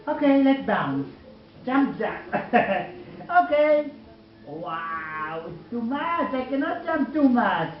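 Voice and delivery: bluebird voice. Acted. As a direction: play the tiny bird bouncing for a toddler. Mother voices bird for child.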